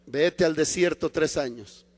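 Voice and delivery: low, unhurried order; lightly voiced God, calm authority; God's calm command. The Lord sends Paul to the desert, calm command. God answers Paul's protest.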